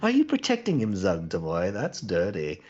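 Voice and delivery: indignant queen, pitch leaping then falling; haughty, swooping questions; affronted queen. Acted. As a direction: demand an answer in mock outrage.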